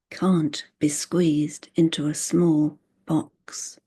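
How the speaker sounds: measured poetry reading, line by line; deliberate poem delivery with spaced-out phrases; poem recitation. Acted. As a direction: read each line as a separate statement, pausing after it.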